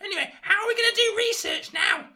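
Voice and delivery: wicked stepmother. Acted. Mother scolds Meg.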